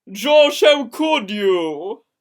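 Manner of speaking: loud, heartbroken cry; slow, hurt disbelief. A narrator's reading.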